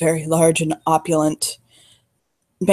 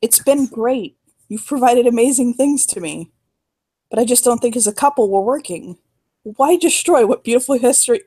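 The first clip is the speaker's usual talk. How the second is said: rehearsed gentle let-down, pitched higher; break-up speech demo; 5 semitones higher than usual. Shown as a demonstration. Coaching her on what to tell Elias, higher rehearsed let-down. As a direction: model a kind break-up line, voice lifted. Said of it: "Use things like".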